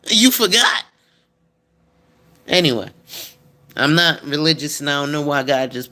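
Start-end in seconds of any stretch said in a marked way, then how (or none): 0.1-0.8 mock God voice. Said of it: "God gonna look at you and be like".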